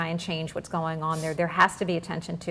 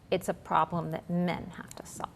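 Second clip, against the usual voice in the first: whispered point; 5 dB quieter than usual. Real, not acted. Host whispering her point that men must solve it.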